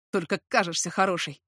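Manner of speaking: lightly voiced snarl of the man; a hint of his menace; angry whisper. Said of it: "зло прошептал он".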